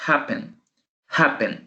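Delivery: happen, stressed on HAP, second syllable light; stress on first syllable. Shown as a demonstration. Teacher models happen for students, first-syllable stress. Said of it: "escuchen bien la pronunciación".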